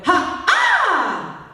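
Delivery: vocal onset demo; sharp ha. Shown as a demonstration. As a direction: bark out a ha. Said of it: "now go".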